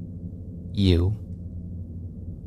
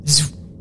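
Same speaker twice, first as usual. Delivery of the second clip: whooshing sci-fi door noise; imitated door zoom; 7 semitones higher than usual. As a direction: voice the whoosh of sliding doors. Imitates the elevator doors opening.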